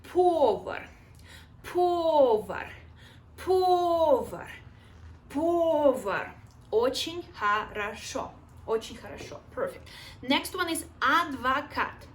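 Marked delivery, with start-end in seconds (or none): 0.0-6.3 energetic drill. Shown as a demonstration. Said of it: "you do like this".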